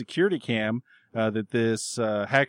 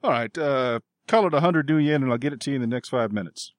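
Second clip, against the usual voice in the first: lightly put-on manly voice; brisk dealer, a hint of put-on manliness; masculine fairy voice; 3 semitones higher than usual. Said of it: "a more masculine voice comes across".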